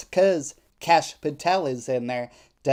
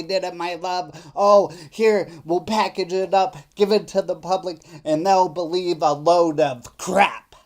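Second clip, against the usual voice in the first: mock sappy lover voice, lifted and pushed louder; mocking the texter; 3 semitones higher, 3 dB louder than usual. Mocking the suspect's supposed texts in a sappy lover voice. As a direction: sneer it like a syrupy fake confession. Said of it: "no twenty-two-year-old talks like that".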